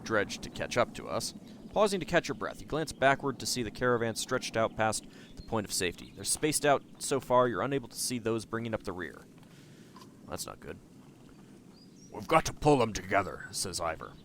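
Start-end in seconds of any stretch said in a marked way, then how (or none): 1.7-9.2 story narration. Acted. Reads game narration. 12.1-13.5 weighty tribal chief. Acted. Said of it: "that was more the chieftain's voice".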